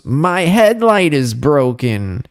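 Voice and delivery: mock angry complaint, slow; angry woman. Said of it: "She was super angry".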